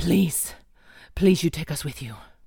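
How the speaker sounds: put-on poorly done German accent. Retelling what a German mother said when she rushed up to you, in a put-on German accent. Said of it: "I'm sorry about my German accent".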